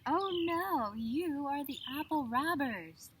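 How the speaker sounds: high, loud accusing cry; grumpy roar. Acted. Grumpy farmer roars at the pixies, high and loud.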